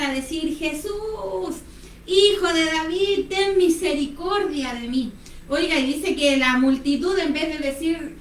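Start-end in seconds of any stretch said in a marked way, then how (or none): 0.6-5.1 drawn-out calling out, held back; imitated cry. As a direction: call out to Jesus in a mild mock shout. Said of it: "empezó a gritar".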